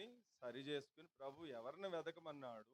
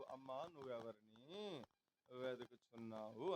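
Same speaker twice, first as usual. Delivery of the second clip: gentle voice of Jesus; 6 semitones lower, slower than usual. Acted. Preacher voices Jesus asking Mary.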